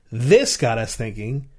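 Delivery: this leaned on, slow; stress on THIS. Shown as a demonstration. Showing emphasis games to a co-host. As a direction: hit the word This. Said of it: "the Q I people said".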